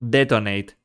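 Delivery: flat synthetic text-to-speech voice; robot voice. Shown as a demonstration. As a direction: read it like a typed computer voice. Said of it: "Type detonate".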